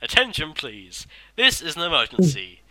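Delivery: lightly voiced posh recorded man; posh announcer voice. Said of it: "a posh man saying".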